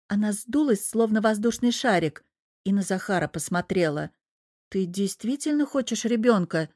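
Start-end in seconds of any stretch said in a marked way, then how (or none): none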